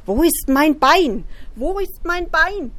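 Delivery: high, slow, eerie ghost moan; ghostly count. Acted. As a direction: wail it like a haunting ghost. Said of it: "die vertraute Stimme des Grafen".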